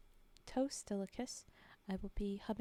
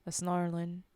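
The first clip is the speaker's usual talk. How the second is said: put-on Cockney-ish accent; 3 semitones lower, 7 dB louder than usual. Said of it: "that original accent".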